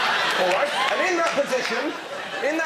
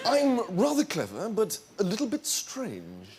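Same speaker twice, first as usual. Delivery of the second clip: Charles. Acted. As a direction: play the dreamy prince. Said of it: "I'm Charles".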